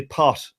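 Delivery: "pot" with the final T softened toward SH; soft Irish T. Shown as a demonstration. Irishman showing the American how he says it, "pot" with soft T. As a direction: let the T in "pot" slide into a soft hiss. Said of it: "I say it with, like, an S H".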